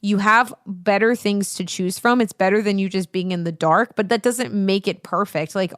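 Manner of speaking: ordinary delivery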